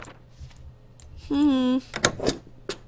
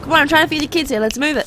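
loud, pushy border guard rushing the line; gruff guard barking at the queue; impatient guard; 4 semitones higher, 5 dB louder, faster than usual. Acted. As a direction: hurry them along, fed up. Impatient border guard hurrying traveller.

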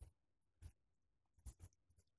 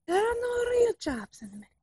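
put-on higher, louder, faster Russian accent; exasperated shout; 8 semitones higher, 5 dB louder than usual. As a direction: shout it in frustration. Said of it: "fake Russian spy".

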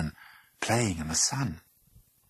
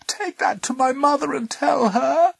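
high, urgent, loud plea; pleading; 6 dB louder than usual. A narrator's reading. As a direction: beg urgently in a raised voice. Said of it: "she pleaded".

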